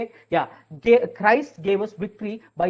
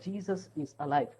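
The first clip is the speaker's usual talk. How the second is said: said very softly, almost breathed; barely voiced, gentle as a prayer; gentle whisper; 4 semitones lower, 11 dB quieter than usual. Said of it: "I started to whisper very gently".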